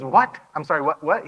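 high, loud, startled double take; can't believe what he just heard; stunned disbelief. Retold or imitated. Son hearing dad's sudden okay, stunned and surprised.

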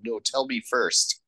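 matter-of-fact counter-demand; retold refusal. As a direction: hold out for the answer. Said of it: "And Tuco's like".

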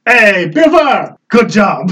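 cheering. Acted. Character cheers a teammate.

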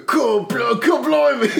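high, loud mock-British yelp; shouted blimey. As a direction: yell it like a shocked cockney. Mock British exclamation at news.

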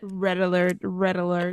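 lightly voiced alarm announcement; mock alarm. Co-host sounding the batshit alarm, mild mock warning. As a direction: repeat it evenly, like an automated warning. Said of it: "sound the batshit alarm".

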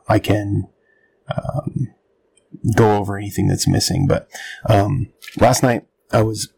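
ordinary talk

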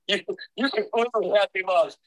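laughing. Real, not acted. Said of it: "I'm trying not to, not to cry".

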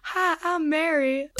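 lightly put-on southern accent, drawn out; a slow hint of southern accent; mock southern voice. Co-host mimics her friend's extra voice, slow southern accent. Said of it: "kind of southern voice".

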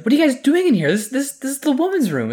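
high, loud mock Creed voice; squeaky old-man Creed bit; Creed impression.

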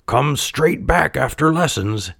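lightly voiced parent sending a child off; Geppetto. A narrator's reading. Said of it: "he told him".

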